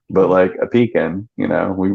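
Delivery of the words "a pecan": pecan as PEE-kin, weak second syllable; own regional pronunciation. Shown as a demonstration. Southerner giving the home version, pecan as PEE-kin. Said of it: "we make pecan pistachio pie".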